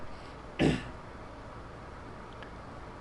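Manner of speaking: clearing a cracked throat; rough cough to clear the voice. Real, not acted. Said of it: "voice crack out of nowhere".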